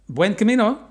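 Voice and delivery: bright loud greeting called across; calling out. Retold or imitated. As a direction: call out a cheerful hello. Greeting a passing pilgrim.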